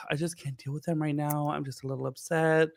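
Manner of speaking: lightly voicing her soft, caring way; a hint of a mild, soft-spoken friend; soft imitation. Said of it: "very soft".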